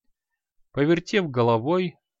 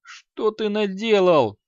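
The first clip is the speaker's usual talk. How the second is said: high, slow horrified gasp rather than whisper; 7 semitones higher, 4 dB louder, slower than usual. A narrator's reading. Merchant horrified, asking the mage what he has done. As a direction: terror swelling in the question. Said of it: "в ужасе прошептал Шибаррис".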